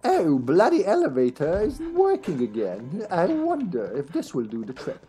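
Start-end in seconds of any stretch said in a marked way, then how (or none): 0.0-3.1 mock British accent. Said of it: "I'm gonna talk like this to the entire stream".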